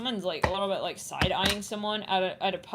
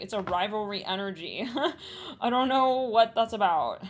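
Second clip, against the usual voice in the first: normal talking voice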